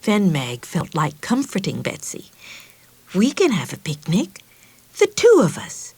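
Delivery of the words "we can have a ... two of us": kind offer. Acted. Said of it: "she said kindly".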